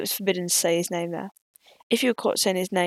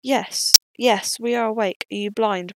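brave retort; 5 dB louder than usual. Acted. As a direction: snap back bravely. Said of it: "bravely asked Gray".

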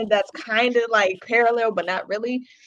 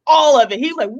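normal talking voice

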